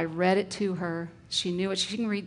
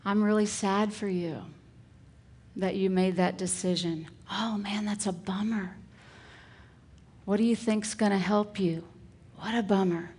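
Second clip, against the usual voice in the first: empathetic lines. Shown as a demonstration. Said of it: "some of those empathetic lines".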